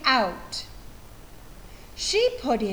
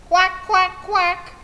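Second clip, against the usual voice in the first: laughing quack; 6 semitones higher, 3 dB louder than usual. Acted. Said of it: "The animals laughed their muddy laughs".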